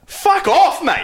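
high, scoffing disbelief; outraged laughing scoff; incredulous. Real, not acted. Reacting to French hat ad.

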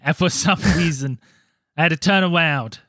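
failed Boston accent, "around" lisped like "awound". Shown as a demonstration. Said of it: "I do it with a lisp".

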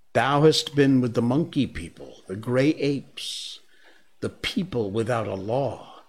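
a panther's hard, disappointed judgement; cold stern panther. Acted. Bagheera reproaching Mowgli.

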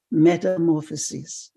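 put-on lightly French-accented, savoured word. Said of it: "in a French accent".

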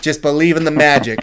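kindly New York angel; New York accent. Retold or imitated. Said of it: "Is that accent fake?".

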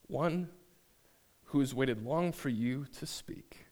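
hushed, large, deep voice of a mysterious being. Acted. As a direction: murmur it low like an unseen giant. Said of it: "very large and deep".

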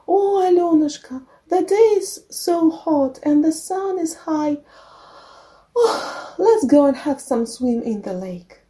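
put-on high, coaxing old-woman voice; kind old woman. A narrator's reading. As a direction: coax sweetly in a high, put-on voice. Witch posing as kind old woman.

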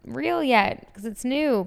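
lightly voiced doubters, lifted in pitch; mimicked skeptics. Fan quoting people closed to new ideas, mildly mocking. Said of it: "So they're like".

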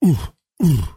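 two short punching "ooh" grunts; mimed punch grunts. Pretend. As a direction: grunt as if landing two jabs. Miming a one-two punch.

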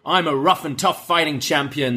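hammed-up barking champion; mocking Bron's bark. Tag champs mocking Bron's gruff bark. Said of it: "They're kind of mocking Bron, uh, how he talks".

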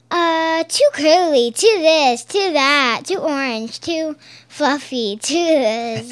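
lightly acted fussy list; imitating fussy pony. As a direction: reel off complaints like a picky stylist. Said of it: "she's like".

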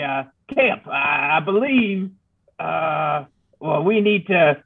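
a grizzled frontiersman rambling; old prospector voice. Acted. Player voices his character.

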